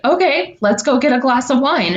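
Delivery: lightly voicing an upbeat mom; light imitation of mom. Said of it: "she'll be like".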